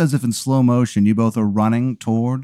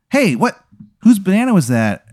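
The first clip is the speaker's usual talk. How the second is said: annoyed voice from above; 7 semitones higher than usual. Acted. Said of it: "you hear a voice go".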